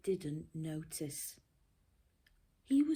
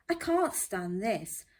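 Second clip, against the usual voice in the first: fed-up Mister Bear; 3 semitones higher, 5 dB louder than usual. Acted. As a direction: grumble it out, fed up.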